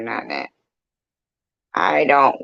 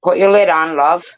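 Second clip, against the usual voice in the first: grandma voice; 5 semitones higher, 6 dB louder than usual. Pretend. Voicing grandma.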